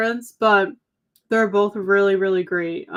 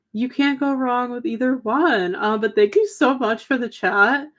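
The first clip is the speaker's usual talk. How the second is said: hoarse voice; 3 semitones higher than usual. Real, not acted. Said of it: "I feel like I'm losing my voice a little bit".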